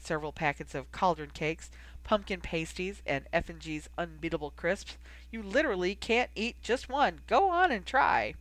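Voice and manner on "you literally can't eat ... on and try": slogan sales pitch. A narrator's reading. Quoting the crisps' sales slogan.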